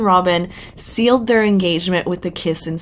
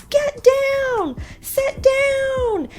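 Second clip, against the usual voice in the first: high-pitched imitation of a yelling mom; mock yelling mother; much slower than usual. Mother yelling at her kids on the rock, high mock yell. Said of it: "Robin's yelling at her kids".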